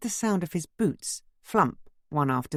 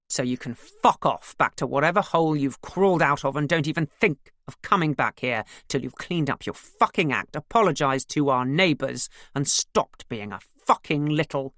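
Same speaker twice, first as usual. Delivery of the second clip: louder raging father; furious yelling; 4 dB louder than usual. Acted. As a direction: spit out furious abuse. Father pins son to wall.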